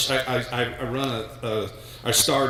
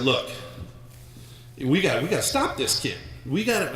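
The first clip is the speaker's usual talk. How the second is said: John Onnie impression; 2 semitones higher than usual. Dad coaching his daughter at a timeout, coach impression. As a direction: do a mild impression of your old coach. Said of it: "I did my best John Onnie imper-, impersonation".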